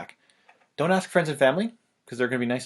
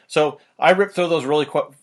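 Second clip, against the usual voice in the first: breathless after a fast rant; short of air, words tumbling; out of breath; 6 dB louder than usual. Real, not acted. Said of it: "my mouth is getting all crazy and I'm out of breath".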